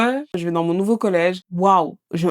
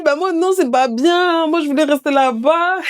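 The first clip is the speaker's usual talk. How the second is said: put-on Mahoran accent; 8 semitones higher than usual. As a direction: draw out the protest with a Mahoran accent. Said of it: "Avec l'accent". (plainte aiguë, accent mahorais)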